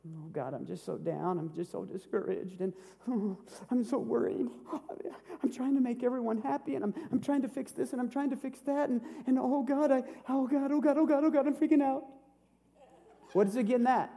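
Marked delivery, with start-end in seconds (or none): 0.1-4.5 soft, low, moping prayer; mock despair. Shown as a demonstration. Pastor acts out a discouraged believer praying, softly moping. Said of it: "Here's faith that doesn't work". 5.4-12.0 rising higher and faster into frantic fretting; mock panic. Shown as a demonstration. Pastor acts out a panicking believer praying, building into frantic panic. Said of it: "Here's faith that doesn't work".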